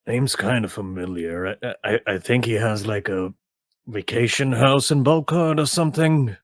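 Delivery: lightly voiced subdued tavern friend; Will. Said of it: "You see, he goes".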